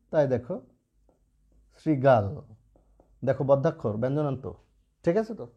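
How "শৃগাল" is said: শৃগাল begun with sri, not shri; dental S demo. Shown as a demonstration. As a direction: model শৃগাল with a clear initial s. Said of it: "তালবস্যের উচ্চারণ দন্ত স হবে". (শৃগাল-এর শ দন্ত স-এর মতো উচ্চারণ)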